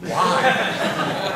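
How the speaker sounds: high mock-baffled question; incredulous protest. Director retells actor balking at the role, mock incredulous. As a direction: push it up, baffled, as a retold reply. Actor's startled reply to casting.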